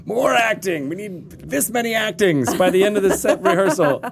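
mock director.

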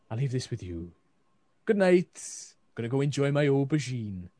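attempted Welsh accent with a lilt; Hulda. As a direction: bid good night in a makeshift Welsh accent. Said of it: "it was my attempt at Welsh".

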